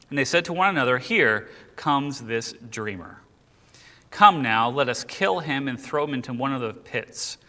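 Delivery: deliberate, emphatic verse reading; scripture reading. Acted. Brothers plotting against the dreamer, scripture reading. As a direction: read the plotters' words out with weight.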